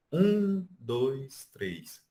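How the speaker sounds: counting with a high first beat. Shown as a demonstration. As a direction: count it out, pitch up on um then drop. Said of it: "Ela coloca assim, que o forte a gente fala, é, em uma altura mais alta".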